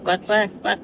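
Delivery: soft mock duck quacks; understated duck impression; imitating a duck. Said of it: "why did you sound like a duck person".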